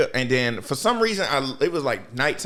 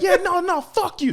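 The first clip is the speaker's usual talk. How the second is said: mock defiance; 3 dB louder than usual. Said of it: "He said".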